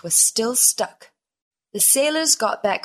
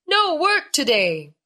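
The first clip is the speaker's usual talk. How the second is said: loud, raised cheer; shouted; 6 semitones higher, 4 dB louder than usual. A narrator's reading. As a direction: shout it out as a happy crew. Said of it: "the sailors shouted".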